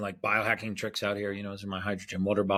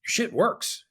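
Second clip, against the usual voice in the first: emphatic praise; 13 semitones higher, 4 dB louder than usual. Retold or imitated. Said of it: "is his exact words".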